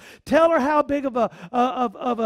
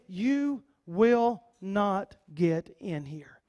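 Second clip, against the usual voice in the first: mocking Jebusites; 3 semitones lower, much slower than usual. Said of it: "picture them ... saying".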